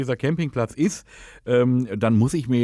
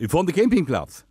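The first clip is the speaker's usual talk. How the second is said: put-on Dutch accent, lisping; 6 semitones higher than usual. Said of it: "rede, lispeln und Holländisch".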